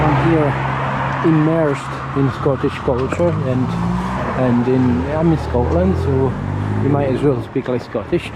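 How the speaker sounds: lightly put-on Glaswegian accent, half-joking; chatting in a mock Glaswegian accent; playful Glaswegian lilt. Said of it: "this is more Glaswegian than Fifer".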